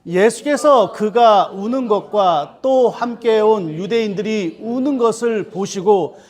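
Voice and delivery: measured, solemn reading of scripture; slow scripture reading. Acted. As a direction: read the passage aloud slowly and deliberately. Congregation reads scripture aloud.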